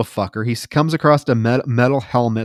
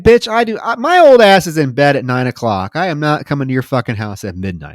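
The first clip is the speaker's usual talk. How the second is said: indignant rant, louder; exasperated outburst; 2 semitones higher, 4 dB louder, faster than usual. Retold or imitated. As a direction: yell it like you're done with her nonsense. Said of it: "I'd be like".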